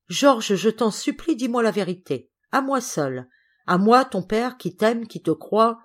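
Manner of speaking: father's insistent, heartfelt begging; pleading. Acted. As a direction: implore your son tenderly for the truth. Father begs son for the truth.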